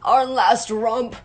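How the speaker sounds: slow, drawn-out groan of regret. A narrator's reading. Father recalling the last romp, groaning. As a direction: groan the words out, stretching each one. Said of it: "Mister Darling groaned".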